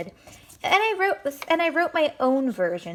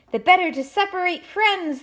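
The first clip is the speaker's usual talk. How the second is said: much higher and louder villainous cry; monster exclaiming; 10 semitones higher, 6 dB louder than usual. Acted. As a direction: announce it triumphantly. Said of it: "the monster exclaimed".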